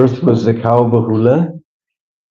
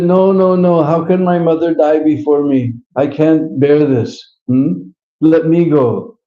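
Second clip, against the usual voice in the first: pleading calf; 4 semitones higher than usual. Acted.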